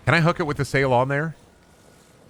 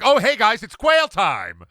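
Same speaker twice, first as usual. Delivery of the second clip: hammed-up, higher hey-guys streamer intro; mock a cheesy streamer greeting, slowing on quail time; 11 semitones higher, 4 dB louder, slower than usual. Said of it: "How am I gonna be a streamer and then be like".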